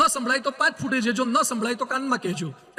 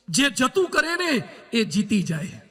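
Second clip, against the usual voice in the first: slow emphatic maxim; 2 semitones lower, slower than usual. Acted. Maxim repeated for effect.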